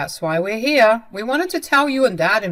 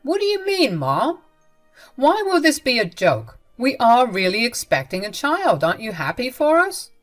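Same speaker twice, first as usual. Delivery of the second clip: higher, louder bewildered questions; confused son; 5 semitones higher, 5 dB louder than usual. Acted. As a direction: son asking his mother why, bewildered and louder. Son confused by mother's reaction.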